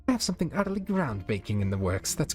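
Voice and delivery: diva sweeping off; haughty posh lady. Acted. Rarity haughty exit.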